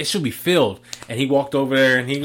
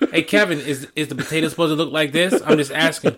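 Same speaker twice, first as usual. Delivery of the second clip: lightly imitated fake-innocent question; mock sarcastic; 3 semitones higher than usual. Coworker behind Kevin finding bad potato, imitated sarcasm. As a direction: needle him, feigning innocence. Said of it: "basically what it is is sarcastic".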